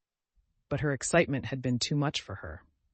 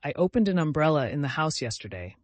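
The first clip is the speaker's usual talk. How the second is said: sniffing; 3 semitones higher, 5 dB louder than usual. Acted. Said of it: "sniffed Cousin Georgiana".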